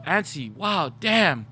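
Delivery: high, mock-amazed teasing; retold comeback. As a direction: replay the roast, breaking into laughter at the punchline. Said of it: "I was like".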